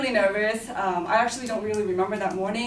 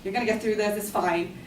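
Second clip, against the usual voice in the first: self-soothing; 3 dB quieter than usual. Retold or imitated. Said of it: "I tried to calm myself".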